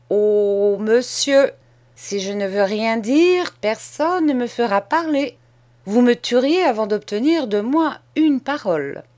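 put-on a boy laying out terms, steady and sure; bold schoolboy.

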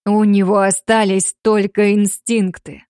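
slow, firm and final; cutting off, curt. Acted. Dmitry cutting the father off, slow and final. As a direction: shut the argument down. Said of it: "отрезал мужчина".

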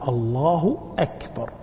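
أكبر started with a clear glottal stop after الله; cut hamza. Shown as a demonstration. Teacher gives correct form for adhan and prayer, hamza cut. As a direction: break cleanly between الله and أكبر. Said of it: "والصحيح أن يقطع".

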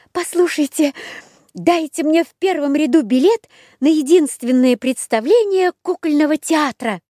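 put-on high squeaky puppet boy. A narrator's reading. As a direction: pipe it up like a toy. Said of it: "пропищал". (пропищал)

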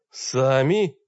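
thundering. Acted. Enraged wizard throwing the word back, thundering rise. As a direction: roar the word back at them. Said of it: "грянул старик ещё страшнее".

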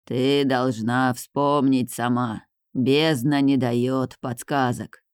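low, slow spirit voice; otherworldly voice. Acted. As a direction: speak slowly from the abyss. Spirit of the abyss speaks.

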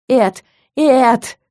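loud, high protesting cries; shouting his name. Acted. Heroine slung over shoulder, loud protest. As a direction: yell at him to let go.

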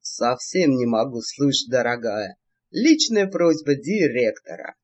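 низкий, медленный чужой говорок; передразни меренца с деланной скорбью; подражание меренцам. Acted. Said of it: "подражая меренцам". (низко, скорбно передразнивает меренцев)

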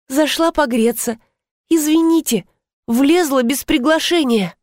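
high, lightly purred apology; affectionate purr. A narrator's reading. Uninvited guest excusing herself to the couple, sweet high purr. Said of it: "ласково промурлыкала я".

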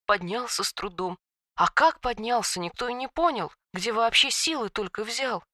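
soft, hushed tragic telling; tragic whisper. A narrator's reading. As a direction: hush it like a sad secret. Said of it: "трагическим шёпотом произнесла".

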